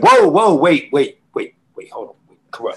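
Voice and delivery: sudden high shout of whoa, then fading to a laughing hush; mock urgent stop. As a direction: yell to cut the rapper off, then laugh it down. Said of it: "dog said".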